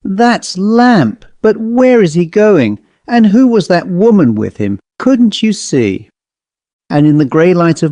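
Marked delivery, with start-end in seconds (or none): 0.0-6.1 horrified. A narrator's reading. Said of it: "cried Storley".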